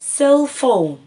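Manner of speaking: cell phone said loud, with a firm hit on cell; teacher modelling cell phone loudly; word said for counting. Shown as a demonstration. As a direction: call out cell phone for the class. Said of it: "هعمل كده وابتدي اقول".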